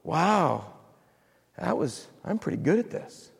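mock smug pride. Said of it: "No, that'd be stupid".

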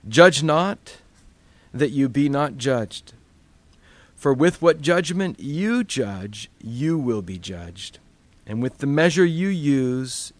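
scripture reading. Acted. Reads scripture aloud.

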